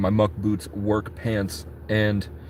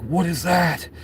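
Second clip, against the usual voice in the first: tag; 6 semitones higher, slower than usual. Acted. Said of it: "Will and Jesse are like".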